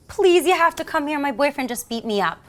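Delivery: imitating a distressed woman, high pleading start; retold plea for help, high then easing; upset caller. Woman phoning police after a beating, upset. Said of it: "very upset".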